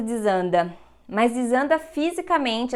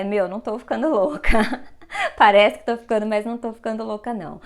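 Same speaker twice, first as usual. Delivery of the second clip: fala entre risadas, brincando que não está louca; rindo; faster than usual. Real, not acted. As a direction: riso leve sobre a própria loucura. Jokes about going crazy. (rindo de leve de si mesma)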